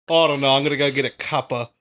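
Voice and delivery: quick put-on Cockney aside; mock Cockney. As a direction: shrug it off in Cockney. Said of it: "turning Cockney".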